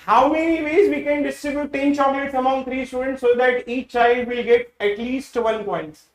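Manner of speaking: each word of the question read out very slowly; slow dictation. Acted. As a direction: dictate the problem so students can write it down. (धीरे-धीरे सवाल लिखवाना)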